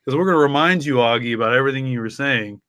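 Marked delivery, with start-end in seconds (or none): none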